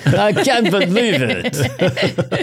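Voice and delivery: high, laughing movie star voice; a laughing, vain leading man; Cary Grant impression. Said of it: "if he was born in eighteen twenty in Prussia".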